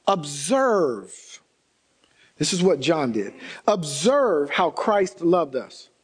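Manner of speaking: slow, deliberate scripture read. Acted. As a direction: let each phrase land slowly. Reads scripture slowly.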